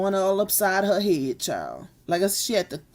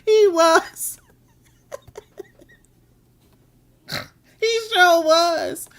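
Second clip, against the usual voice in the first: high and loud through laughter; laughing; 10 semitones higher, 5 dB louder, much slower than usual. Real, not acted. Streamer reacts to a viewer's joke, laughing high. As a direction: cackle the words out.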